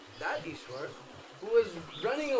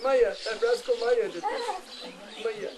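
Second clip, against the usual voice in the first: put-on child blaming; 4 semitones higher, 5 dB louder than usual. Child blames mother, acted.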